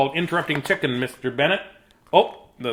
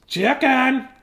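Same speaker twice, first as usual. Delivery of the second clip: higher stern-ish papa; 10 semitones higher than usual. Acted. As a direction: call the chick to order. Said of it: "You interrupted the story".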